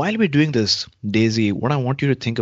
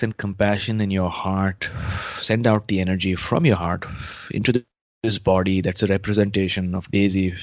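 calm meditative tone. Acted. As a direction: ease the listener into calm. Leads a guided healing meditation.

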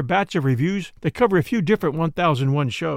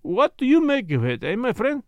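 high, lilting detective character voice; keen questioning; 7 semitones higher than usual. A narrator's reading. Detective testing the doctor on his find, keen questioning. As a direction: probe keenly in a higher, put-on voice. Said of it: "eyeing me keenly".

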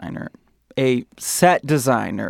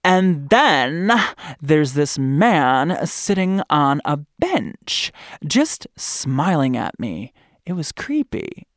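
Kaylee voice; slower than usual. Retold or imitated. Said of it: "this is my Kaylee voice".

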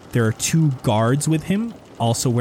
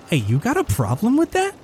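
taunting guard; 12 semitones higher than usual. Acted. Guard challenges the players.

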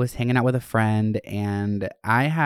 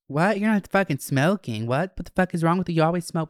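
outraged disbelief; 6 semitones higher than usual. Retold or imitated. Friend outraged he won't smoke.

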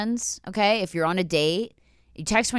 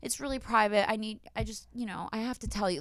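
soft, hushed confession; mock confiding; 3 semitones higher, 8 dB quieter than usual. Girlfriend on a fake call says it's private, mock confiding. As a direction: confide softly, as if upset.

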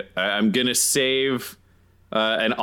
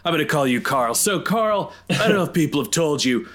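higher-pitched, hammed-up needling insults; mocking taunt; 4 semitones higher than usual. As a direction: goad him with playful, raised-pitch mockery. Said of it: "my ability called Sticks and Stones".

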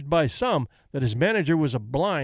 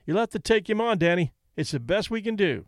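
pleading; 4 semitones higher than usual. Acted. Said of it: "Kelly pleaded".

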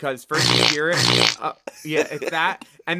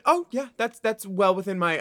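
imitated contestant reply; 5 semitones higher than usual. Acts out Jasmine's reply, high.

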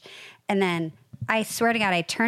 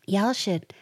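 lightly put-on Southern hostess accent; terrible Southern accent; 2 semitones higher than usual. Mother-in-law explaining how to host a party, bad Southern accent. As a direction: have a clumsy go at a Southern accent. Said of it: "this is a terrible accent I'm doing".

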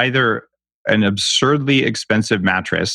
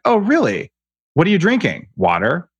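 whiny voice. Retold or imitated. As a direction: mimic a whiny health nut. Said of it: "I'm just using my whiny voice".

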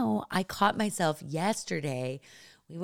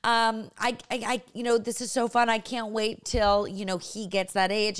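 excited new mom; 5 semitones higher than usual. Retold or imitated. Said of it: "She was like".

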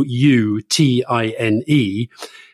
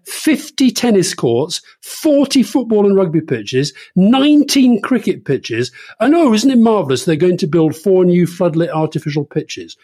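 higher, slow and hammered list; sarcastic marvelling; 6 semitones higher than usual. Acted. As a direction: stretch each figure in mock amazement. Mockingly lists Eton's lavish facilities.

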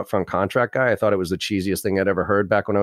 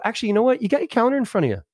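sweet, much higher and quick, friendly nudge; really nice tone; 12 semitones higher, much faster than usual. Shown as a demonstration. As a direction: nudge them kindly to check the calendar now. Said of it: "you do this with a really nice tone of voice".

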